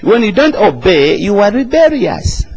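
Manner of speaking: emphatic rebuking cry; rebuke. Real, not acted. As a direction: call out the rebellion. Preacher rebukes the congregation.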